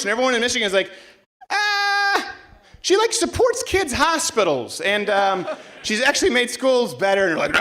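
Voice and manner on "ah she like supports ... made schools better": mock defensive local. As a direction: play a flustered Michigander pleading her case. Voicing Michiganders defending DeVos.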